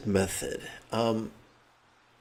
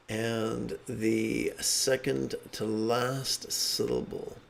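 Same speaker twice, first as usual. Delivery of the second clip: slow explanation; 4 dB quieter, much slower than usual. Shown as a demonstration. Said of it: "We chant in a monotone".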